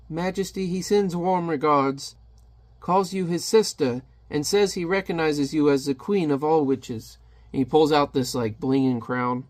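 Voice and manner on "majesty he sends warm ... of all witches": royal envoy. Acted. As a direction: deliver it as a courtly message.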